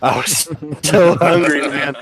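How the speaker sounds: amused, voice lifted by laughter; laughing. Real, not acted. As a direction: let a laugh break into the sentence. Laughs at own crude hunger joke.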